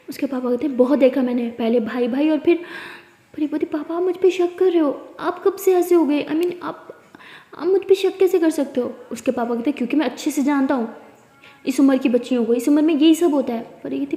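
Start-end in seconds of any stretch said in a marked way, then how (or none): 0.8-2.6 loud bitter father; father dismissing Pari's excuse; angry sneer. Acted. 3.7-8.9 higher, pleading daughter; hurt protest. Acted. Daughter hurt by father's suspicion. 9.8-13.8 louder stern father; father lecturing Pari about girls her age; angry lecture. Acted. Father angrily lecturing daughter.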